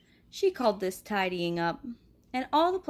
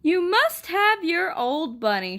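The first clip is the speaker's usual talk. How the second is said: firm mom; 6 semitones higher, 5 dB louder, slower than usual. Acted. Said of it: "she said".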